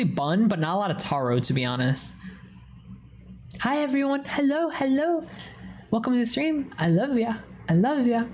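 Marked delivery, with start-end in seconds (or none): 3.6-8.2 high cheerful greeting. Real, not acted. Greeting stream viewers.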